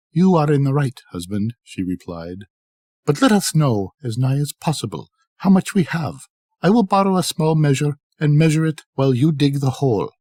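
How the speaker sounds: a lightly played excited wife; Ali Baba's wife.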